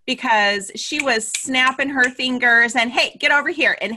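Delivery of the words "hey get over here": bossy photographer. Retold or imitated. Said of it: "bossy photographer was one of them".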